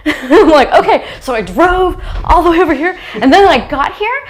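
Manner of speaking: laughing while talking; giggling through the words. Real, not acted. Laughing retelling.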